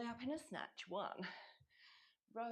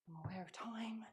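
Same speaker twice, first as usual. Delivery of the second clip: whispering; 4 dB quieter than usual. Real, not acted. Whispered aside to self.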